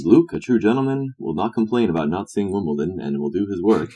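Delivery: hint of a proper gentleman; lightly voiced gentleman instructing his apprentice; Professor Layton. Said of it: "he said".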